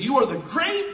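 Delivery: high, loud impassioned cry; crying out to God. Retold or imitated. Preacher as Nehemiah seeing his people crying, crying out to God. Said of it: "he begins to cry out to his God".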